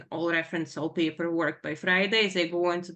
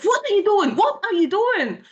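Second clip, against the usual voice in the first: high, loud retold yelling; exasperated shout at mom; angry outburst; 11 semitones higher, 10 dB louder than usual. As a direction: imitate a furious daughter demanding an answer. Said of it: "more anger is causing it in, in her".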